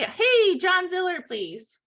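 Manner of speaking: bright lift on "Hey", dropping to "please"; phone greeting demo. Shown as a demonstration. Trainer demonstrating the first seconds of a cold call, upbeat phone greeting. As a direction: open a sales call loud and high, then ease down. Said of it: "So if I say".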